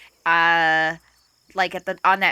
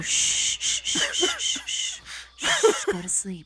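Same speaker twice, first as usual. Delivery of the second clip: unvoiced soothing shushes; whispering over a crib; 2 semitones lower, 4 dB quieter, slower than usual. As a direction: hush a baby to sleep. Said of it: "I would just go".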